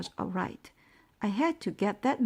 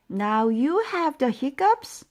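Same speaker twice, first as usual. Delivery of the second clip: louder, higher call from afar; yelling; 6 semitones higher, 6 dB louder than usual. A narrator's reading. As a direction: shout it across the house. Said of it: "yelled Mom".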